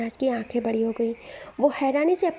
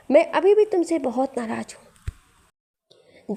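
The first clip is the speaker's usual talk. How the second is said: stubborn sulk; 3 semitones higher, 3 dB louder, much slower than usual. Acted. Sulking husband insists he's angry.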